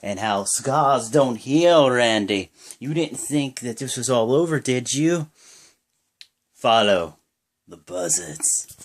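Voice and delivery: slow, eerie promo voice fading to a breath; a hint of Bray Wyatt's menace, drawn out; creepy cult leader. Bray Wyatt taunting Randy Orton, slow creepy promo voice.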